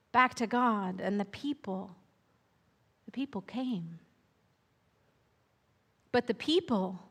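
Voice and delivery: gentle read-aloud storyteller pacing; unhurried picture-book narration with lingering pauses; storybook narration. A narrator's reading. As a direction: read it like a bedtime tale to children.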